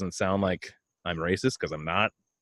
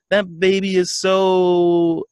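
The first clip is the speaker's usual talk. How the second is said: high, slow, gushing; mock gush at a hairy baby; gushing coo; 9 semitones higher, 5 dB louder, much slower than usual. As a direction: coo it like a proud relative.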